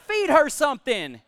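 amused, fond instruction; laughing. Acted. Jesus jokes about hungry girl.

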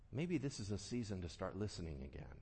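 ordinary talk, nothing marked

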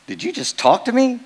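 put-on startled old man. Old fisherman startled by frog.

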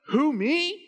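surprised Peter. Acted. Peter answers God's calling.

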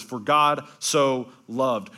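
very slow, drawn out. Shown as a demonstration. Preacher savouring the verse's first words, very slow. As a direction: linger on each word, very slow. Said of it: "The first words in the most famous verse".

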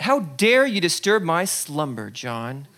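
booming, indignant; a hint of a wrathful king; mock offended god. Jesus imagined as offended ruler, mild mock indignation. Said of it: "Or maybe he's upset".

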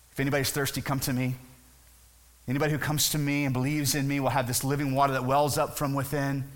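understated, gentle offer; calm invitation. Acted. Jesus tells the guards about the gospel, calmly inviting.

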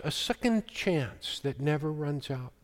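a quiet, reflective echo of the line. Shown as a demonstration. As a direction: let the repeat sink to a hush. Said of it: "said again softer".

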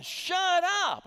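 high, loud, stretched-out squeal of delight; Kennedy-style shut up. Retold or imitated. Preacher imitating a staffer's delighted reaction to big news. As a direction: squeal it in disbelief like a thrilled young woman. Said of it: "And then again".

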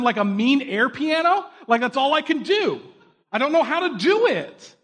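scolding his own hands after a bad piano lesson, exasperated; frustrated self-talk. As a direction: vent at yourself, climbing in pitch toward the end. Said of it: "so frustrated".

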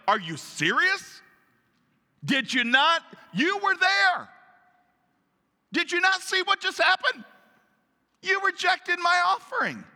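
high, loud outraged protest; indignant Cain. Acted. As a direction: protest in disbelief, voice shooting up. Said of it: "if you're Cain, you're probably like".

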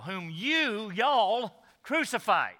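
"you" leaned on, then restated as "y'all"; stress on YOU. Shown as a demonstration. Preacher explains the plural word to church, stress on "you". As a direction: set "you" and "y'all" apart before "crucified". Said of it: "a way of emphasizing the word you".

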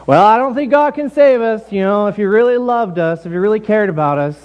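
high, theatrical mock complaint; meant to be overheard. Church members hoping God overhears, high mock lament. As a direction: pitch it up pointedly for an eavesdropper. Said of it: "comparable if we were to do what the Israelites here did".

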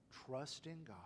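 hushed whisper. Acted. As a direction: whisper it tenderly. Quoting Jesus in prayer.

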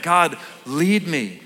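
very slow, earnest request to God; slow prayerful plea. Shown as a demonstration. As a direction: pray it slowly like a trusting child. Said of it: "Like a child to a parent".

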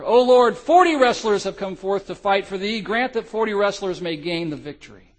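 high, loud roaring prayer. Acted. Forty soldiers on the ice praying, high loud roar. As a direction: roar it out like a legion. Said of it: "roared with more vigor".

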